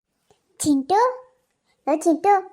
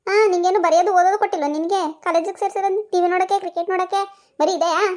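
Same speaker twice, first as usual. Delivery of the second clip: higher, insistent mock scolding; angry mother; 4 semitones higher than usual. Mother demanding the remote from her son, higher nagging scold.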